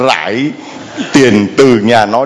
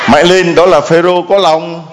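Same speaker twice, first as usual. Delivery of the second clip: shout; 4 semitones higher than usual. Real, not acted. Preacher shouts to congregation.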